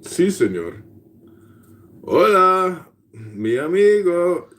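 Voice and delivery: playful mock Spanish greeting; Hispanic accent. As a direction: put on a hammed-up Hispanic accent. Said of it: "can you do a Hispanic a-, accent".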